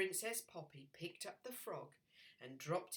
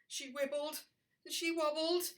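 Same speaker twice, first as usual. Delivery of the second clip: excited; 9 semitones higher, 7 dB louder than usual. A narrator's reading. Wobbling story climax.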